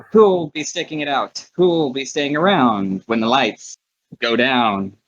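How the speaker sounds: big theatrical carnival barker pitch; sing-song showman's patter; booming ringmaster. Acted. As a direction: call out to the crowd, swooping down at each phrase end. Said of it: "have his voice boom out as he calls out".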